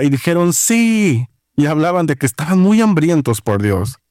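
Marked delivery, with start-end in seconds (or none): 0.5-1.3 high, drawn-out mock cheer, no real volume; imitated crowd shout. Pastor answering along with congregation, high mock shout. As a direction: imitate an eager yell at raised pitch. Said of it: "la gente se puso a gritar muy fuerte".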